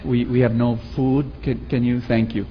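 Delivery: pleading daughter. Retold or imitated. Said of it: "it was the daughter who was coming".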